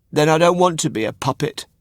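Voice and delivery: put-on high, wistful boy voice; a puppet wishing aloud; high wistful Pinocchio; puppet boy's voice. Pinocchio speaks in the story.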